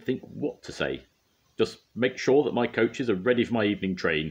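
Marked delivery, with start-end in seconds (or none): 1.6-4.3 spluttering. A narrator's reading. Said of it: "he spluttered as he fumed away".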